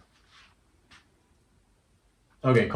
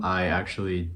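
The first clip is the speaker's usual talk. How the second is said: talking while chewing gum. Real, not acted. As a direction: chew gum while you talk. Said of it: "Please excuse the gum".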